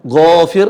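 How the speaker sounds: GHAFIR with a heavy, rounded, long "ghaa"; thick long gha. Shown as a demonstration. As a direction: lean on the thick first syllable of ghafir. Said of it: "huruf gha". (ghafir dengan gha tebal panjang)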